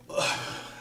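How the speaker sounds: long breathy sigh; weary sigh. Real, not acted. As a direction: let out a slow exhale. Pause recalling ex-wife's tricks.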